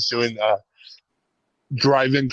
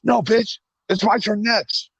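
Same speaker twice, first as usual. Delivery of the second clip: higher, bratty retort; mock dad voice; 9 semitones higher than usual. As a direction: snap back, pitched up, teasing. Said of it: "I was like".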